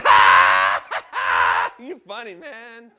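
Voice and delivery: hammed-up divine laugh fading to a murmur; God laughing. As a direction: play God chuckling at him. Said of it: "God going".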